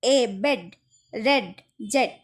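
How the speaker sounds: বেড, রেড, জেট with "eh", not "ee"; short E sound. Shown as a demonstration. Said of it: "ইর মতো করে উচ্চারণ হচ্ছে না". (বেড, রেড, জেট হ্রস্ব এ দিয়ে)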